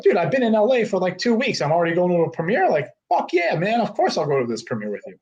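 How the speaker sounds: high, fast, thrilled acceptance; excited yes. Retold or imitated. New guy in LA thrilled to be invited to a premiere, excited. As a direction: burst out with delight at the invite.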